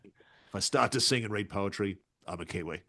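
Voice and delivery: understated antipodean movie-star voice; Russell Crowe. Acted. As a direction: lightly impersonate a matter-of-fact film star. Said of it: "bit of Russell Crowe".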